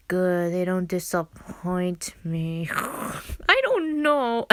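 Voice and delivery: put-on slow, lightly slurred drunk voice. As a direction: drawl it like a tipsy drinker. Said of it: "That was not a good drinking voice".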